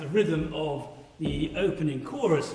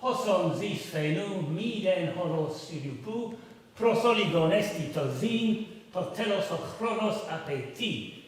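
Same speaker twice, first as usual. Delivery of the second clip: reading Greek; 3 semitones higher than usual. Shown as a demonstration. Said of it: "in Greek it says".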